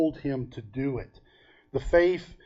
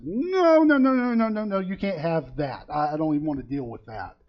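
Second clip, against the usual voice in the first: high, loud frantic mock protest; panicked refusal; 3 semitones higher, 3 dB louder than usual. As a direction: play a man desperately guarding his closet. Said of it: "And the guy said".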